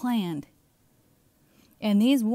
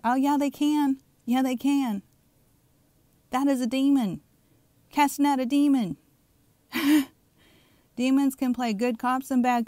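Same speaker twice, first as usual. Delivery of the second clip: raised pitch, emphatic preaching; fired-up rebuttal; 5 semitones higher, 4 dB louder than usual. Real, not acted. Preacher rebuts those saying demons can't, fired up. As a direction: push back hard, each line a punch.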